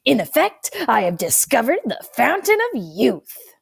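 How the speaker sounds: the grandfather bursting with excitement; shaking with excitement. A narrator's reading. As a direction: proudly reveal a big discovery. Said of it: "His voice shakes with excitement".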